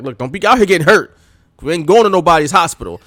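a hint of a scolding parent; mock stern parent. Parent warning a kid, lightly voiced stern. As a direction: warn the kid off like a parent would. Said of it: "any black parent".

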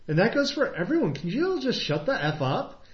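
mock angry outburst. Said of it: "And he goes".

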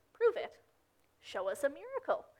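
high-pitched acted demand for proof; lightly mock a sceptic's challenge; mild challenge. Jewish leaders to Jesus, demanding a miracle, challenging.

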